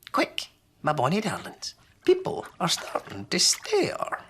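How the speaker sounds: urgent high granny; wee Granny. Acted. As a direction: hurry them along. Granny hurries children.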